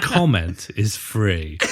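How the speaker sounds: slow, lightly voiced columnist; grizzled pundit. Grizzled face beside a newspaper headline, slow mock pomposity. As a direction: draw it out like a mock-weighty byline. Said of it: "grizzled faces, like, edited next to headlines".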